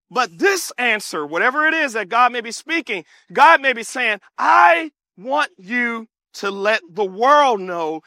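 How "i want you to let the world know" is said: slow, measured, forceful proclamation; emphatic declaration. Acted. God telling a believer to let the world know, emphatic. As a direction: declare it slowly, leaning on each word. God's declaration voiced by preacher.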